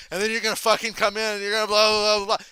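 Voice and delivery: hammed-up shouting of match calls; mock shouted instructions. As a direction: imitate a wrestler shouting out the plan. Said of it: "Punk is shouting at everyone".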